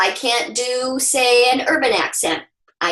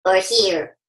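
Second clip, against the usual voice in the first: low-placed version of the same words; lower placement; 6 semitones lower than usual. Shown as a demonstration. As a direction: voice dropped noticeably lower. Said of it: "Find out what's it sound like when your voice is here".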